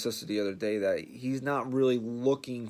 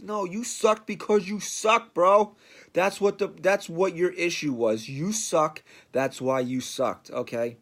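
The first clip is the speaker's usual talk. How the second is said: louder, higher rant at the pitcher; heated rant; 3 semitones higher, 4 dB louder than usual. Real, not acted. Podcaster ranting at Sonny Gray, loud and fed up. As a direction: let him have it, loud and fed up.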